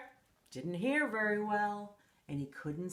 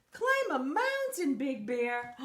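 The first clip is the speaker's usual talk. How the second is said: amazed echo; 3 semitones higher, 3 dB louder than usual. Acted. Narrator echoes, amazed.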